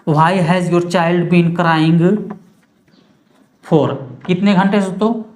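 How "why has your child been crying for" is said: put-on Why has your child been crying for stretched word by word; slow dictation. Shown as a demonstration. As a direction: let the class write along slowly. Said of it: "since का use". (धीरे-धीरे लिखवाना)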